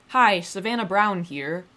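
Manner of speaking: stiff email voice. Retold or imitated. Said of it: "Kinda sounded like Kermit the Frog".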